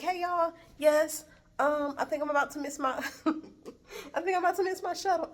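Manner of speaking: high voice breaking into giggles; sheepish laughing reply. Retold or imitated. Traveler tells coworkers she may miss shuttle, high and laughing. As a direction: answer brightly, then rush it through laughter.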